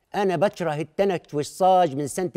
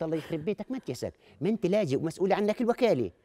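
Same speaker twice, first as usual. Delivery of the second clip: soft self-scolding aside; muttering to himself; 2 semitones lower, 6 dB quieter than usual. Acted. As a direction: grumble it under the breath.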